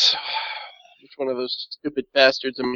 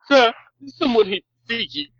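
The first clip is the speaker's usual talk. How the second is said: higher-pitched servant announcing a visitor; servitor character; 7 semitones higher than usual. Acted. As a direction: report upward in a raised, put-on voice. Servitor reports to master by vox.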